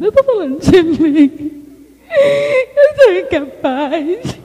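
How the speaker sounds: slow, breaking voice on incapaz; drawn-out sob in the words; tearful admission to the husband; tearful confession. Retold or imitated. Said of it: "eu virei pra ele e falei".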